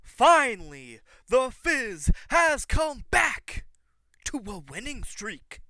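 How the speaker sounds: high, booming, drawn-out catchphrase delivery; wrestling promo shout. Acted. Leaving y'all with a vignette, wrestling promo shout. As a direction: stretch it out like a showboating wrestler.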